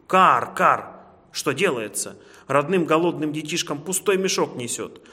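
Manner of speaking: loud, scolding crow; cawing crow. A narrator's reading. Crow scolding the hare for his empty sack, loud cawing. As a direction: caw it out, then scold loudly. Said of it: "А ворона всё каркала".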